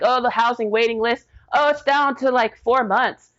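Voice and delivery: retold offhand officials. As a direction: breeze through it like someone passing on routine news. Retold officials, housing waiting list.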